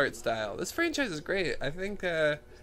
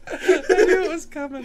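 higher, laughing through the words; 11 semitones higher, 6 dB louder than usual. Real, not acted. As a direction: giggle it out as you speak. Laughing at friend's joke.

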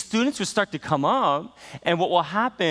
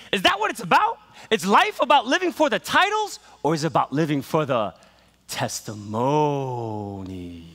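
black preaching; 5 semitones higher than usual. Retold or imitated. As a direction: build it like a preacher, then draw out testimonies. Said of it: "that's great black preaching".

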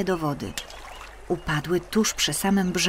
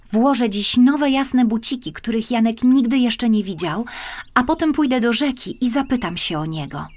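put-on high, louder child's voice; a small girl's bright resolve; hopeful little girl; 6 semitones higher, 4 dB louder than usual. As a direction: speak like an eager little girl with a plan. Marysia resolves to visit river.

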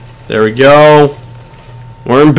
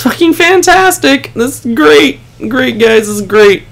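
higher, mock-cheerful sarcasm; sarcastic; 6 semitones higher than usual. Real, not acted. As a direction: fake enthusiasm about a bad situation. Team down a man.

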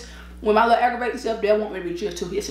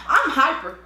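raised, energetic pitch; hyper; 5 semitones higher, slower than usual. Real, not acted. Admitting to being hyper, raised excited voice. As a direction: say it high and worked up. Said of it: "I'm yelling again".

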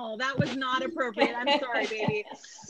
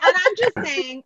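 higher, louder and slow; emphatic; 7 semitones higher, 8 dB louder, slower than usual. Real, not acted. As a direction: lean hard on the defence. Defending the joke.

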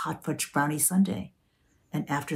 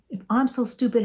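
mocking son's retort; 7 semitones higher, 3 dB louder than usual. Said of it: "Instead, you say".

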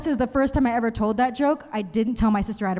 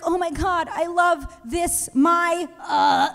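higher, slow awkward mock moaning; mock solo dirty talk; 5 semitones higher, slower than usual. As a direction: fumble dirty talk alone. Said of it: "Can't be whacking it like".

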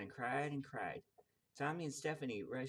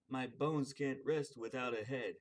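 skeleton voice; 4 dB louder than usual. Acted. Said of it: "the skeleton said".

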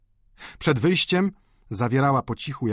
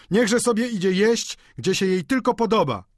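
high-pitched dismissive outcry; calling out; 10 semitones higher, 4 dB louder than usual. A narrator's reading. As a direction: call it out like voices from a crowd. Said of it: "zawołało kilka głosów". (wysoki okrzyk z tłumu)

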